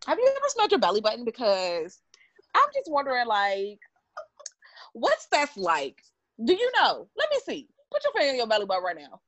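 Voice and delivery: Kayla impression. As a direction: lightly mimic a nosy friend, pitch jumping about. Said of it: "Do your best impression of me".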